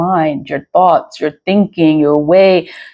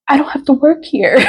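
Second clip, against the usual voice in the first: elated realization; 7 semitones higher, faster than usual. Retold or imitated. Acts out realizing she can quit.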